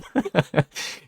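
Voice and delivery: breaks into high laughter; real laugh at himself; high burst of laughter. Real, not acted. Laughing at own tangent.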